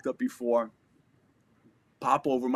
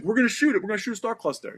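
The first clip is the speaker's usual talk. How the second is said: eager, higher voice, pumped up; like a kid about to light a firework; excited buddy; 11 semitones higher, 5 dB louder, faster than usual. Retold or imitated.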